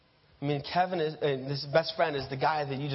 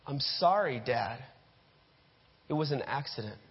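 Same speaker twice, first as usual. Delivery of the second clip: on the verge of tears. Acted. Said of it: "you say on the verge of tears".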